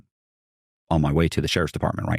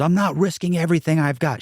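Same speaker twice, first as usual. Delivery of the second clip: high-pitched, indignant imitation; adamant refusal; 10 semitones higher than usual. Partner refusing to pay for a lawyer, mock indignant.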